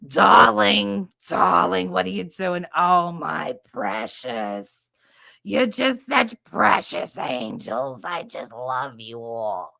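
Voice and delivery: loud then slow, cooing doting; doting nurse. Retold or imitated. Nurse Pat doting slowly on the kids. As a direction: dote on them slowly. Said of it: "Pat was right".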